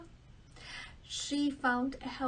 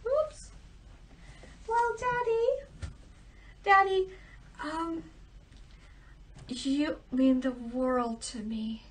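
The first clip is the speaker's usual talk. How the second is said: shy youngest daughter; 2 semitones higher than usual. Acted. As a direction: start flustered, then sincere. Youngest daughter answers the king.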